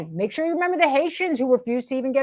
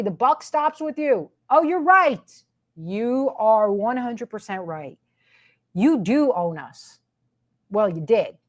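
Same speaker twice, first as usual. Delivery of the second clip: usual speaking voice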